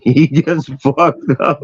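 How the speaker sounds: slow, high, dissolving into laughter; laughing. Real, not acted. Storyteller cracking up as another soldier hits a mine, laughing. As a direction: lose it while finishing the sentence.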